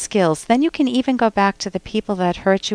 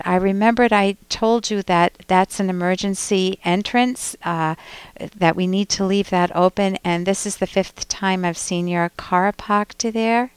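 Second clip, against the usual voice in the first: controlled frustration. Shown as a demonstration. Host modelling I-language about the parked car, frustrated. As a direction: state the grievance firmly but evenly. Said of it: "could you hear the frustration in my voice?".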